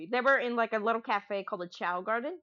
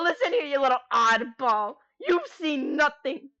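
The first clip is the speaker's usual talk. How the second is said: cracking voice; 4 dB louder than usual. Real, not acted. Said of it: "you hear my voice cracking".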